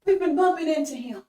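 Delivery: impassioned sermon refrain; preaching at full force. Acted. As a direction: drive it home to the crowd. Preacher raises voice.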